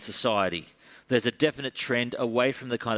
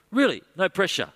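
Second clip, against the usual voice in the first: Paul voice; 8 semitones higher, 4 dB louder than usual. Acted. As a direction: lean on Really, soothing and high. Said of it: "the Apostle Paul says".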